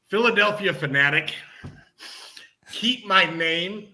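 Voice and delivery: spaced-out, hammed-up warning; mock threat. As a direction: warn a rival with mock gravity, pausing for weight. Mock beef callout of mascot.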